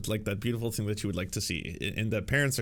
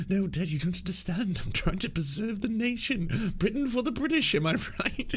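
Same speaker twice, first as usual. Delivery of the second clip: high, rising whine that ends in a laugh; mock a pleading son; whiny son voice; 10 semitones higher than usual. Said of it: "And he's like".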